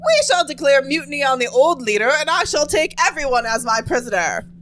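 mimicking Rara as conqueror. Friend mocking Rara taking over the community, grandly declaring. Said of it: "That's my impression of Rara".

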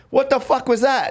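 insistent, high-pitched incredulous demand; retold confrontation. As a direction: re-enact pressing someone for an answer. Presses the dealer, retold.

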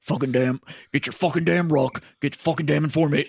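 lightly imitated blown-out sergeant's throat; a hint of a chain-smoker's wrecked voice; Drill Sergeant Stankiewicz. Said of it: "his throat was permanently blown out".

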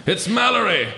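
high alarmed gasp of a name; frightened cry. Acted. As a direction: blurt it out in sudden fright. Frightened climber cries out.

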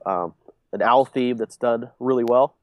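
congested, stuffy-nosed speech; blocked nose. Real, not acted. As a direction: talk through a blocked nose. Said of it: "Man, I am so congested".

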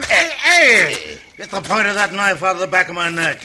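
startled, loud and high, protesting; alarmed yelp. Acted. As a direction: yelp in panic as a blade touches your neck. Knife pressed to his neck.

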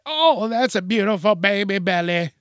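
put-on cooing over a baby bump; sugary admiring coo, lightly voiced; gushing stranger. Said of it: "some motherfuckers are like".

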